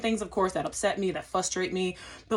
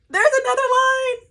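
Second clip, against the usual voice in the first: much higher, louder exasperated whine; 7 dB louder than usual. Retold or imitated. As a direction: squeal it out in disbelief. Exasperated at passport control.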